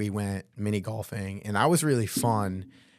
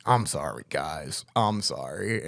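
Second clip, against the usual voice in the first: apologetic; 5 semitones lower, slower than usual. Retold or imitated. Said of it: "apologetic moment".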